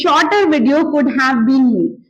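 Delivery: slow and spaced; slow model sentence. Shown as a demonstration. Teacher dictating the short-video taunt slowly. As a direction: say it word by word. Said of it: "तो आप सिर्फ बोलेंगे".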